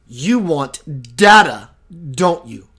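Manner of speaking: slow, heavy, a touch of a powerful being; robust entity voice. Retold or imitated. Alien entity tells the host what he wants, slow and heavy. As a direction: lean on data like a knowing presence. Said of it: "very, very robust".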